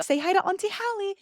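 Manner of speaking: put-on high sing-song baby-talk voice. Relative shows baby to Hallie.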